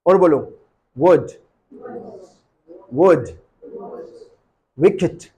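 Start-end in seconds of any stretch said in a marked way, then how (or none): 1.0-3.3 वुड with lips pushed into a round circle first. Shown as a demonstration. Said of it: "होंठ को गोल कर लो और बोलो". (होंठ गोल करके वुड)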